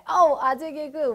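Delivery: lightly voiced students reacting to a lame joke; mock groaning students. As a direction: play a class groaning at a dad joke. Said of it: "라고 얘기하면 너네".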